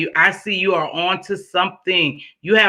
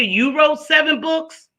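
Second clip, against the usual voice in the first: surprised; 9 semitones higher than usual. Real, not acted. Host learns viewer wrote books.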